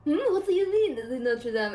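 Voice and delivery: imitated puzzled friend. French friend puzzled by the cathedral's name, mock confusion. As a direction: act baffled by the pronunciation. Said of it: "my friend's like".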